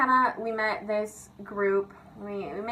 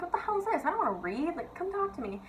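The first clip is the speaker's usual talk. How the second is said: high, whiny, bored complaining; whiny complaint; 9 semitones higher, 5 dB quieter than usual. Retold or imitated. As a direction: whine like a bored teen. Bored in silent reading.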